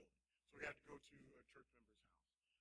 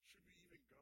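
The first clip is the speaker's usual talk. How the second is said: whispered repeat; 8 semitones higher, 11 dB quieter than usual. Retold or imitated. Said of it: "she's crying".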